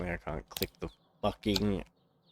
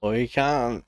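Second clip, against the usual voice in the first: hostile insult; 4 semitones higher, 6 dB louder than usual. Shown as a demonstration. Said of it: "that doesn't necessarily mean".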